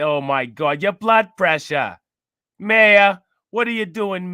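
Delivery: put-on frantic secretary, slow on the first "Oh my God", in a light New York accent. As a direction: fret over the mayor like a panicky New York office lady. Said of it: "she got the white lady New York accent".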